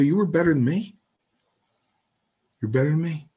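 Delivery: high-pitched incredulous retort; indignant challenge. Retold or imitated. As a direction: throw the claim back, pitch way up. Retold indignant argument.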